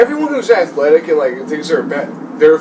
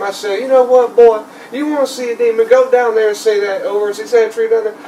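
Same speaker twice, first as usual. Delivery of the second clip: a hint of a higher-pitched old country man telling a ghost story; old redneck dude; 6 semitones higher than usual. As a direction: lightly voice the old redneck owner spinning his tale. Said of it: "the old redneck dude".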